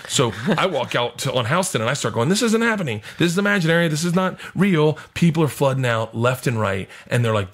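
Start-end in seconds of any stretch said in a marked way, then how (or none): 2.3-5.0 high, mildly panicked self-talk; acted disbelief, starting high and easing down; retold panicked denial. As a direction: talk yourself out of it, pitched up. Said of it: "I think I'm on P C P".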